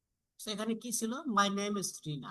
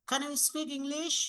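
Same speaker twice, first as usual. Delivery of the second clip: slow and higher, rising on English; rising intonation; 7 semitones higher, much slower than usual. Shown as a demonstration. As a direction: stretch it out and lift English at the end. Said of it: "এইটা আমরা কি up করব". (ধীরে, English-এ স্বর ওঠানো)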